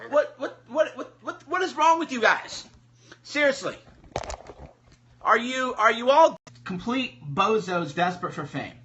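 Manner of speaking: loud, high, laughing incredulity; can't believe what he's seeing; exasperated disbelief. Real, not acted. Reacting to a gun clip.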